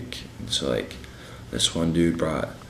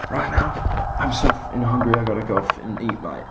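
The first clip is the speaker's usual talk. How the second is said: put-on English accent; 4 semitones higher than usual. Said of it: "I'm from England".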